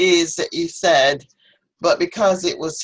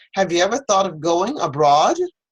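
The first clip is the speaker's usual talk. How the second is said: rising, lifted intonation at the end on abroad. Teacher demonstrating how to ask a question: rising intonation on abroad. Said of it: "you want to raise your voice a little when you're asking".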